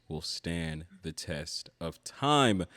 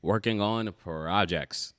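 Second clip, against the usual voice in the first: newscaster voice; 4 dB louder than usual. Pretend. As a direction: read it like an old-time radio announcer. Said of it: "my newscaster voice on for this".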